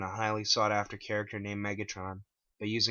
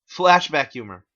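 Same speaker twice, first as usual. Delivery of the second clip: Clyde amused; 6 semitones higher, 16 dB louder than usual. Acted. Clyde laughs.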